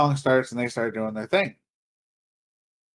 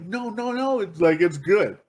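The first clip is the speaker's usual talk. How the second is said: hasty intervening; 4 semitones higher than usual. Retold or imitated. Brother trying to stop security, hastily placating. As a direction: imitate heading off trouble. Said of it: "my brother is trying to stop".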